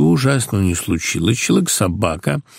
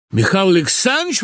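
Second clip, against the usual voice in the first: exclaiming recognition; 9 semitones higher than usual. A narrator's reading. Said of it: "воскликнул прозревший бухгалтер".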